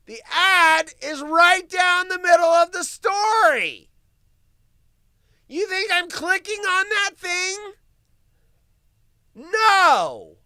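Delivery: shouted outrage, pitch way up and loud; furious complaint about a misplaced ad; angry shout. Real, not acted. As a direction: yell it at the screen in disbelief. Angry rant about ad placement.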